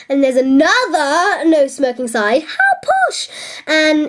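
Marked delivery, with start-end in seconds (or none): 2.4-3.3 mock posh.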